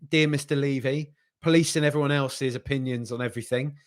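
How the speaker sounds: jokey stern reprimand; mock telling-off. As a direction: pretend to put a cheeky youngster in his place.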